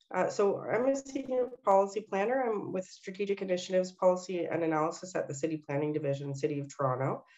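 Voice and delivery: stuffy nasal voice, still congested. Real, not acted. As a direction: talk through a stuffy nose. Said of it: "my nasal sounding voice".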